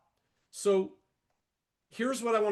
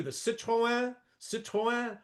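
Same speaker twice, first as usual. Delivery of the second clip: car names said the French way, higher; French accent; 4 semitones higher, slower than usual. Retold or imitated. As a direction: show off French accent on the brands. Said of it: "Where does he get that French accent?".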